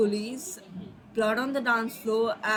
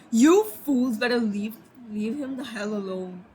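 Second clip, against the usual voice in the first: mildly frustrated scolding, punchy start. Acted. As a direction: act out an exasperated telling-off. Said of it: "he was just so frustrated".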